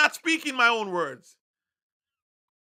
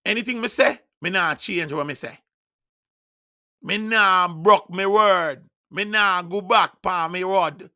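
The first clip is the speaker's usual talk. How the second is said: preacher slipping into his native Jamaican patois; 4 dB louder than usual. Shown as a demonstration. Preacher restating God's promise in Jamaican patois. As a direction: say it broad Jamaican, firm as a vow. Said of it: "let me say it in a patois".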